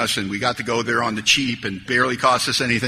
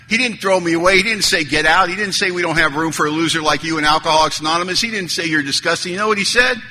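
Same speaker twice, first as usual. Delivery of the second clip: building emphasis; 5 semitones higher than usual. Real, not acted. Building speech to AA meeting.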